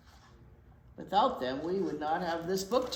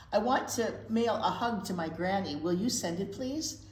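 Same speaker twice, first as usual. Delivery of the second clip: polite voice; 4 dB louder than usual. Acted. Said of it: "Owen used his most polite voice".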